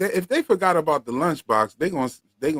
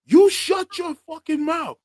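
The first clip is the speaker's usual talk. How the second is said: high, slow shouted threat; mock scream; 4 dB louder, slower than usual. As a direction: scream it at the monster. Boyd screaming at monster.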